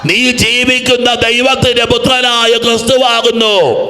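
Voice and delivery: high, drawn-out confession of faith; fervent proclamation. Acted. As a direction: proclaim it slowly, with full conviction. Full confession proclaimed to congregation.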